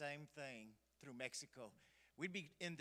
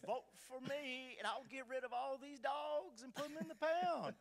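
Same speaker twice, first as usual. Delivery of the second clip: mock campaign call; 11 semitones higher than usual. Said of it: "he'd be speaking English".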